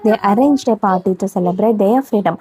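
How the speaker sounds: put-on each word read out slowly for young pupils; slow classroom dictation. Shown as a demonstration. Reads story slowly.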